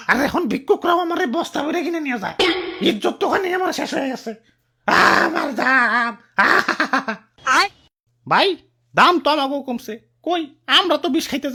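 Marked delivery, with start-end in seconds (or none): 5.3-6.1 drawn-out lament; comic wail. Acted. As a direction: bemoan it as if breaking into sobs. Cauliflower bewails its lost price.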